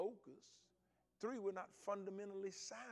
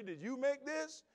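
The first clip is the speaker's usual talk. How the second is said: higher, louder, slow suspicious question; slow suspicious sergeant grilling; stern sergeant major; 8 semitones higher, 4 dB louder, slower than usual. Retold or imitated. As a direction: interrogate the coffee maker. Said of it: "Whenever he asks you".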